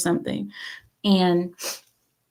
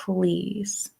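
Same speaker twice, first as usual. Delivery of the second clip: sassy dismissal; 11 semitones higher, 4 dB quieter than usual. Retold or imitated. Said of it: "I'm like".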